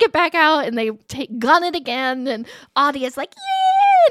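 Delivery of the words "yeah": high, loud cheering imitation; whooping kid. Child as the boat guns it again, whooping.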